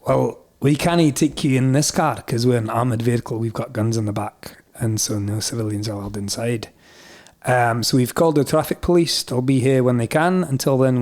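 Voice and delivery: matter-of-fact Scottish police, lightly imitated; wee Scottish accent. Police explaining to hitchhiker, in a wee Scottish accent. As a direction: explain procedure in a Scots accent. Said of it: "do the rest in a wee Scottish accent".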